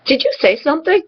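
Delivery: high-pitched, mock-innocent calm; lightly acted calm obliviousness; retold calm question. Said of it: "turn to him very calmly and say".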